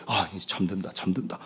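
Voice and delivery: low, very soft murmur; careful hush. Acted. Parent gingerly laying down a sleeping baby, careful hush. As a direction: barely dare to speak it. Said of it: "아이를 막 살살 옮겨요".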